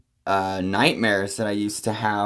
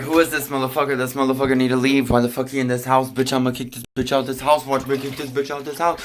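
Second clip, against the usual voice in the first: mock fuming inner rant; 2 semitones higher, faster than usual. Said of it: "I'm like".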